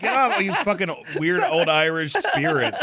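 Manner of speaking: hammed-up shouting at a co-host; mock accusatory shout. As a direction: yell at him like he's a haunting ghost, half laughing. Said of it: "And he's like".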